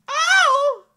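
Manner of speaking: high, loud sudden oh; startled princess. Acted. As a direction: caught off guard. Amelia startled.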